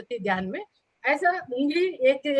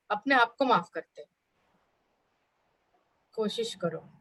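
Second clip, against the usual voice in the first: unhurried guidance with long pauses; guided meditation; 2 semitones lower than usual. Acted. Teacher guiding the class to forgive themselves, guided meditation. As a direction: lead them gently, leaving space between phrases.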